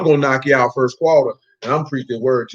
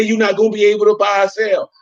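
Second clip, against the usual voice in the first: quoting what they claim; 5 semitones higher than usual. Retold or imitated. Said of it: "They say".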